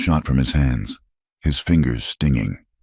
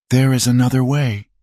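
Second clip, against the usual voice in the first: high, raised yell; 9 semitones higher than usual. Acted. Finch yelling to the posse from afar. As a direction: yell the idea across the rocks. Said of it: "she heard Finch yell".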